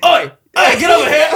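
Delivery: high, loud, shouted British call; hammed-up British shout; mock British accent. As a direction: beckon like a cocky English lad. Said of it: "I wish I could do an accent".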